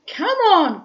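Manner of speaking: high, loud call; God urging Man loudly; cried out. A narrator's reading. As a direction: shout him on. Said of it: "cried God".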